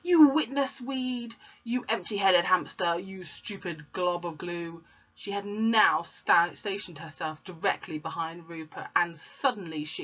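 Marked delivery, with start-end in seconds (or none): 0.0-4.8 scornful insults. Acted. Insults pupil.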